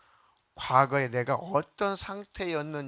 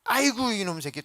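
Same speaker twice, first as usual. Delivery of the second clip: neighbor lady's voice; 5 semitones higher than usual. Retold or imitated. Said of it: "아주머니는".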